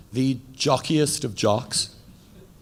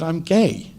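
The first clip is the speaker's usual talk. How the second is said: louder and higher, spelling it out for mother; emphatic repeat; 4 semitones higher, 5 dB louder than usual. Retold or imitated. Son repeating his coming out to his confused mother, emphatic and louder. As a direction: say it again, louder, so she gets it.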